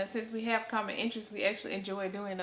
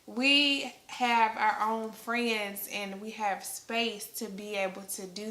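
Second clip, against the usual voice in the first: slow, deliberate, raised voice easing back to usual; pointedly louder and drawn out, then settling; projecting on request; 9 dB louder, slower than usual. Shown as a demonstration. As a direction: make a point of projecting each word. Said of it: "you project a little bit".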